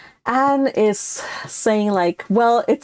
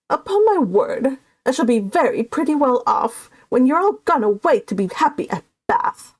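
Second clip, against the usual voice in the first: anxious complaint; 4 semitones higher than usual. Acted.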